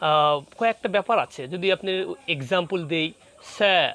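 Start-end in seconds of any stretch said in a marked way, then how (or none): 3.5-3.9 "স্যার" in British style, ending on the vowel, seh; British silent R. Shown as a demonstration. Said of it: "এটা কিন্তু আপনার British". ("স্যার" British উচ্চারণে, র ছাড়া)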